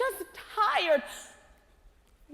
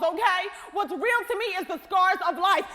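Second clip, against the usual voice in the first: raised, defiant declaration; defiant shout; 3 semitones higher than usual. Acted. Scarred woman defying hope, raised and insistent.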